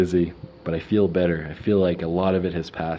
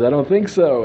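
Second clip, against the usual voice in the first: mock laughing denial; 8 semitones higher, 6 dB louder than usual. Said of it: "He starts laughing".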